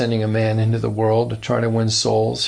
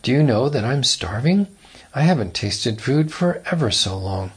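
a breezy greeting from a man who claims to be starving; a touch of chirpy cheer, lightly imitated; mock cheerful; 2 semitones higher than usual. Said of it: "says in a cheerful tone of voice".

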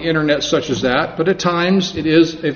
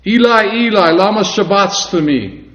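raised, measured cry of appeal; solemn, higher-voiced lament; reverent cry to God; 4 semitones higher than usual. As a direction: call out to God with respect. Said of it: "in a reverential, respectful manner".

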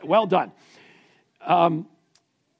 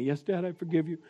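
put-on soft, slightly raised child's reply; a hint of a forgiving son; lightly voiced son; 6 dB quieter than usual. Son accepts dad's apology, lightly voiced and soft. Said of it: "Rush, I yelled at you".

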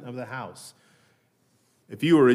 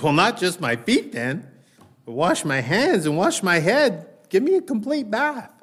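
rising higher to an eager plea; overeager Peter; 5 semitones higher than usual. Retold or imitated. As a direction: pile it on, getting more eager. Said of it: "goes all the way to the other extreme".

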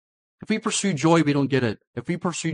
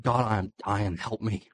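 quiet, lower cry for help; mock lament; 4 semitones lower, 3 dB quieter than usual. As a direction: groan it out to God, softly.

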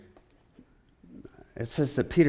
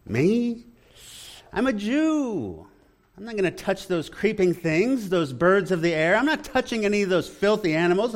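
indignant pious Peter; 5 semitones higher than usual. Retold or imitated. Peter protesting to the Lord, high and indignant. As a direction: play Peter puffed up with his own piety. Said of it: "pious Peter, attempting to prove his piety".

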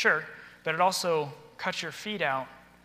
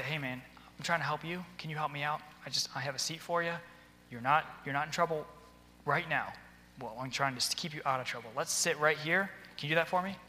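quiet, gentle coaxing of a pupil; soft reassuring; 5 dB quieter than usual. Retold or imitated. Teacher quietly reassuring a kid pulled from class, soft and calm. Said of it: "if I say".

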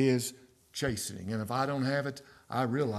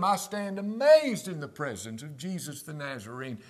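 quoting a hymn; 8 semitones higher than usual. Real, not acted. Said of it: "I love that hymn".

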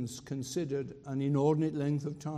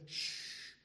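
soft unvoiced shush; a whispered shh; hushing; 7 dB quieter than usual. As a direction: hush the room like a courtier. Hushing in mourning palace.

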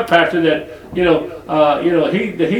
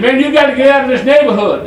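imitating the guy; 10 semitones higher, 7 dB louder than usual. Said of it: "He said".

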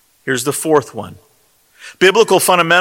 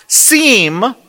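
"seem" set apart by pauses, higher in pitch; stress on seem; 4 semitones higher than usual. Real, not acted. Preacher flagging a key word for the congregation, stress on "seem". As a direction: draw out "seem" and let it hang. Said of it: "let me underline that word".

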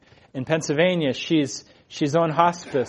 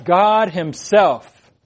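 "God himself" slow, each word given full weight; deliberate, drawn-out stress on "God himself"; emphatic; 3 dB louder, much slower than usual. Shown as a demonstration. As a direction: stretch out and lean on "God himself". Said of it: "But it's emphatic".

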